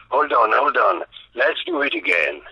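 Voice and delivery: lightly voiced star calling from the back of the office; Schwarzenegger. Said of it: "c'était Schwarzenegger qui était là". (imitation légère de l'acteur américain, plus haut et plus fort)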